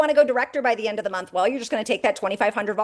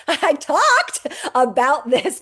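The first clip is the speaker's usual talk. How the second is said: Massachusetts accent; 4 semitones higher, 5 dB louder, much slower than usual. Shown as a demonstration. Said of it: "But I don't talk like that".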